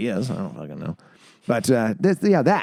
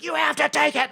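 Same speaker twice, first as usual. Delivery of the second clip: insisting director. Retold or imitated. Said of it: "he's like".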